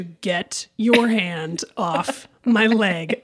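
low, slow, stern command; stern warning. Retold or imitated. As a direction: lay down the law slowly. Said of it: "full gorilla Zara".

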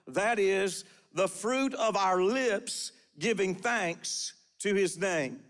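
slow, measured Bible reading; scripture reading. Real, not acted. Preacher reading Hebrews to the congregation, measured scripture reading. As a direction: read the verse out deliberately, phrase by phrase.

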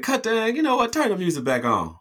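hammed-up gangster bossing the room; high mock boss voice. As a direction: toss the order off like a big shot. Russians order music back on.

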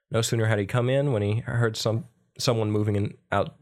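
measured storybook reading; story narration. A narrator's reading. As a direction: read the folk tale aloud evenly. Reads a folk tale aloud.

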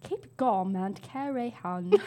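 slow attempt at a British accent. Player asked by friend for British, slow British-accented reading. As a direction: sound it out slowly in British. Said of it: "Say it in a British accent".

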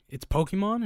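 mock outraged mom asking; shocked question. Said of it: "I'm sorry".

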